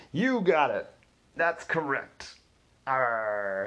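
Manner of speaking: loud, slow hammed-up lion performer; singing telegram guy hamming it up as a lion. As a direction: roar the riddle like a costumed lion. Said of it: "lion confirms the answer".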